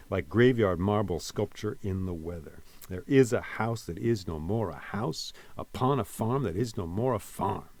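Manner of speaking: "Like graveyard marble sculpture in the weather" beaten in five even stresses; hammered meter. Shown as a demonstration. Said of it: "beating it on the head with a hammer".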